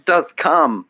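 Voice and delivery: a hint of hammy stage English; mock Shakespeare. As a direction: recite like a tongue-in-cheek Shakespearean. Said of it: "you segued with, uh, Shakespeare".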